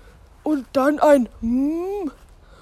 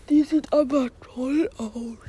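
whisper; 6 dB quieter than usual. Acted. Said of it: "flüsterte Spike".

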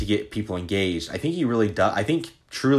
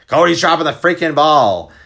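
mock complaint; 8 semitones higher, 9 dB louder than usual. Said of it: "people that work for me are like".

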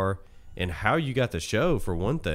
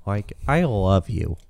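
mock earnest; 3 semitones lower, slower than usual. Mock sincere declaration.

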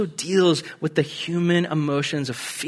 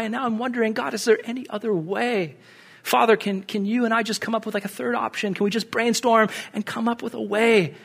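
pleading prayer; 4 semitones higher than usual. Retold or imitated. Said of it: "And he's praying".

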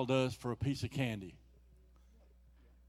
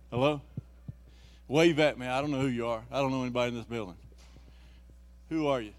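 loud, urgent calling out; 7 dB louder, faster than usual. Real, not acted. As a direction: call out loud to the crowd. Preacher calling loudly.

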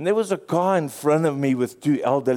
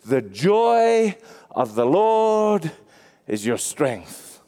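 slow, drawn-out quote with a falling end; scripture reading; much slower than usual. Acted. Preacher reading Nehemiah to the congregation, slow solemn voice. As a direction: read the verse slowly and reverently.

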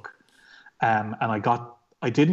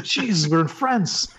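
laughing disbelief; 7 semitones higher, 4 dB louder, slower than usual. Retold or imitated. Shocked inner thought, laughing.

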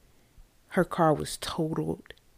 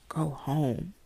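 whispered warning; 5 dB quieter than usual. Retold or imitated. God's warning voiced.

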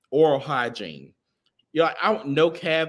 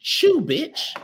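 mock bark; 12 semitones higher, 4 dB louder than usual. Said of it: "And they be like".

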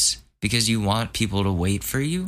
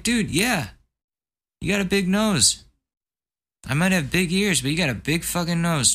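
high, scornful taunting; pitched-up teasing insult; mocking roast; 4 semitones higher than usual. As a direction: roast him with exaggerated glee. Insulting friend's nose, imagined.

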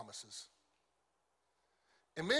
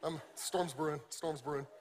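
hushed, softer "storm's brewing" repeated; mock worried mutter; 5 dB quieter than usual. A husband joking about his wife's stink eye, hushed and mock-worried. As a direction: murmur it like trouble is coming. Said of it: "I'm like".

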